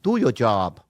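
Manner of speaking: learner's attempt at a Boston accent on "job"; failed Boston accent. Shown as a demonstration. Friend copying the coach's Boston accent. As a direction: try the Boston accent and miss. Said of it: "No, that sounds Asian".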